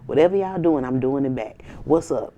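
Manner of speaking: lightly voiced defiant rival; mocking the haters. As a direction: play the rival who won't back down. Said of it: "and they was like".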